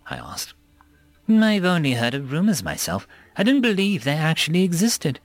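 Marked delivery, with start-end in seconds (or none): 1.3-5.2 fearful awe. Acted. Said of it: "Suma said in awe at the realization".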